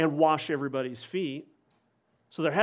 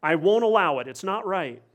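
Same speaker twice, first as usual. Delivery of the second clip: louder, raised, adamant; intense refusal; 3 semitones higher, 5 dB louder than usual. Retold or imitated. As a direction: slam the door on the idea. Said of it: "even more intense and emphatic".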